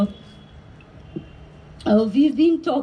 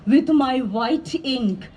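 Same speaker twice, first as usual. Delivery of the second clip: measured poetry reading with pauses after phrases; deliberate, carefully phrased poem reading; poem recital. Acted. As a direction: read it as verse, each line falling to a close. Reads third poem aloud.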